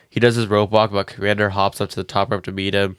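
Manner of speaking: stuffy, blocked-nose voice; congested. Real, not acted. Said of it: "You sound congested".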